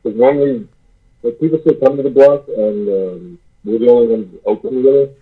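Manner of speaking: muffled, like in a tunnel; echoing tunnel. Real, not acted. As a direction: sounds underwater, far away. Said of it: "why do you sound like you're in a tunnel".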